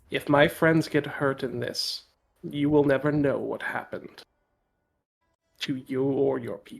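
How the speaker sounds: soft, icy, dead-calm, coldest tone. Player as Baird, looking at Carnation and speaking: calmest, coldest Baird voice. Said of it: "calmest, coldest voice Baird has ever".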